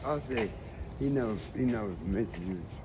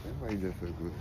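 said softly, half to herself; a soft aside, barely heard; quiet; 2 semitones lower, 7 dB quieter, faster than usual. Real, not acted.

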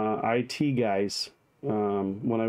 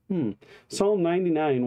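usual speaking voice

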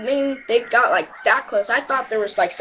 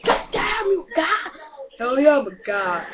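high excited shout of triumph; hyped boast; 5 semitones higher than usual. Retold or imitated. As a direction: crow it like you just won. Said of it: "I'm like".

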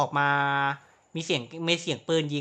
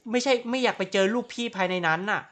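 louder, giggling through the words; laughing; 3 semitones higher, 7 dB louder than usual. Real, not acted. Gamer jokes about becoming a villain, laughing through it. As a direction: laugh while confessing.

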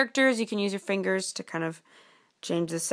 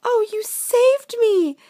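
high, loud, gushing princess; slow, swooning thanks to a hero; rescued princess; 10 dB louder, much slower than usual. Acted. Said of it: "said the princess".

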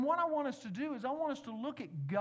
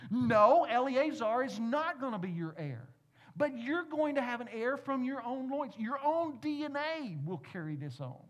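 forceful, louder declaration as God; emphatic; 4 semitones higher, 6 dB louder than usual. Acted. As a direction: proclaim it firmly as God. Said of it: "God is making an emphatic statement here".

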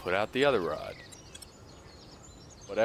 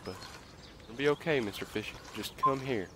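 coaxing; 6 dB quieter than usual. Pretend. Coaxing the hooked fish.

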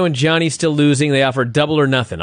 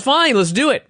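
mock Russo; 10 semitones higher than usual. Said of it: "Russo says".

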